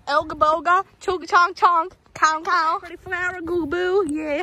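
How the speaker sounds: put-on country twang; light, playful country accent. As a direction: say the silly words in a country accent. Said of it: "In my country accent".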